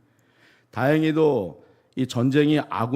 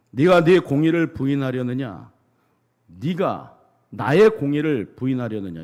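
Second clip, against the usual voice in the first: louder, a preacher's mild take on God's thundering voice; booming voice of God; 5 dB louder than usual. Retold or imitated. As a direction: proclaim it like a voice from heaven, firm and loud. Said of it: "우렁찬 음성으로".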